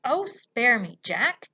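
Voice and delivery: loud, frightened begging; pleading yell. A narrator's reading. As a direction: cry out for mercy. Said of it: "he yelled".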